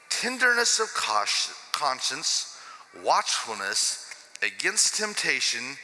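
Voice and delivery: slow, deliberate Bible reading; scripture reading. Acted. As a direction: weigh every phrase of the verse. Reads Amplified Bible aloud.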